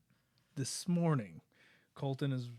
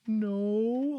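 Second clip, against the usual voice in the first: put-on high, louder mopey child's no; sad little kid; 8 semitones higher, 7 dB louder than usual. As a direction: sulk it out like a caught kid. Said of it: "all sad".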